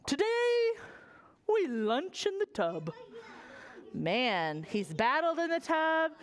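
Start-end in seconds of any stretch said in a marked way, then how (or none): 0.0-2.9 booming king. Acted. King speaking.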